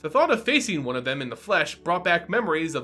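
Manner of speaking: measured, even storytelling read over music; audiobook-style fantasy reading; story narration. A narrator's reading. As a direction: draw listeners into the tale. Reads fantasy story aloud.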